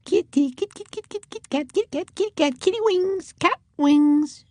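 very high, soft coaxing singsong. A narrator's reading. Susan luring the winged cats, soft high coaxing call. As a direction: lure the kitten closer. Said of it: "in a soft, high voice".

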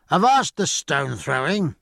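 slow, firm sailor's order; a hint of a stern shout; stern cry. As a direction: call them off the stones, a touch sharper. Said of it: "cried the sailor, his cheerful face clouding".

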